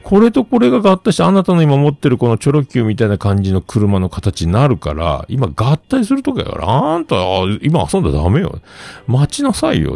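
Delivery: mock lecturing adult. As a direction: lecture the kid like a peer. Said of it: "っつって".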